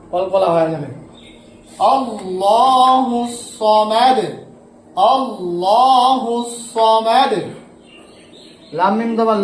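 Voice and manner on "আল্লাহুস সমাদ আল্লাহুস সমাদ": slow melodic chant with long held vowels; slow Quran recitation. Shown as a demonstration. Teacher recites the verse slowly for his students. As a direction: draw the verse out like tilawat. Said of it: "teacher recites the finished verse".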